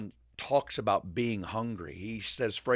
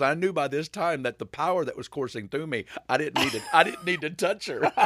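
awed excitement; 4 semitones higher than usual. Retold or imitated. Retelling Lake's ecstatic words.

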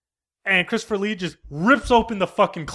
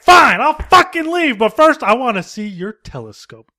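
mock huff; 4 semitones higher, 5 dB louder than usual. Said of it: "Christopher Lee's like".

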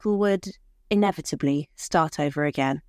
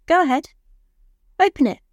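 high, louder excited coaxing; eager urging; 10 semitones higher, 6 dB louder, faster than usual. Acted. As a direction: push him eagerly to open the gift. Wife urges husband to open gift.

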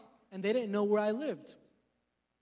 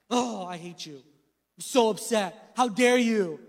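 upset; 5 dB louder, slower than usual. Retold or imitated. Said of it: "I'm upset".

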